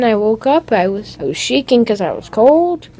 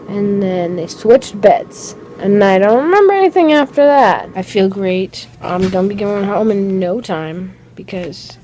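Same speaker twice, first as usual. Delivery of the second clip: drowsy after anesthesia. Real, not acted. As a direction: talk like you're still half sedated. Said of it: "clips of me coming out of anesthesia".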